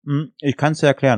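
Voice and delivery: talking with a mouthful; words round a bite of food; chewing while talking. Real, not acted. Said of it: "Entschuldigung, ich esse gerade". (mit vollem Mund sprechen)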